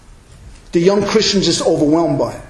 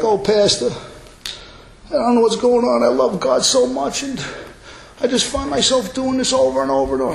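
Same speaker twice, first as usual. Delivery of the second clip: higher-pitched upset young believer, imitated; mock tearful plea; 4 semitones higher, 3 dB quieter than usual. New believer confessing repeated sin to pastor, mock tearful. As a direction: imitate a distressed plea to a pastor, no real sobs. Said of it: "And they're crying".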